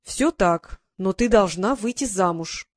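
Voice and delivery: slow, firm and final. Acted. Duchess insisting to her niece, firm and slow. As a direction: lay down the law calmly. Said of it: "твёрдо сказала герцогиня".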